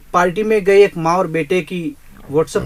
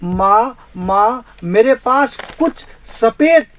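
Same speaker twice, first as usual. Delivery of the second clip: higher, louder, anguished son after the accident; dying son crying out; 4 semitones higher, 5 dB louder, slower than usual. Acted. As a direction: call out to mother from the hospital bed. (हादसे के बाद माँ को पुकारता बेटा)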